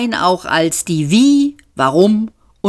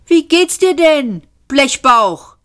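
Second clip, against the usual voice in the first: higher-pitched, lively character voice; cheery greeting; 9 semitones higher than usual. A narrator's reading. Ford greets the miserable robot lying in the dirt, cheerily. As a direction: call out a perky hello to a glum companion.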